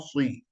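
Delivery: "sui" with a w-glide after the s; mock the mistake with pursed lips on "sui"; "sui" as a wrongly rounded "si"; faulty lip rounding. Shown as a demonstration. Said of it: "Jangan ada suara orang sebut".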